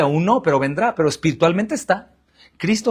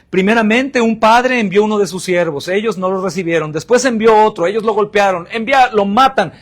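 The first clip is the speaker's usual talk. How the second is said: forceful parable telling; 2 semitones higher, 5 dB louder than usual. Acted. Predicador cita la parábola con fuerza.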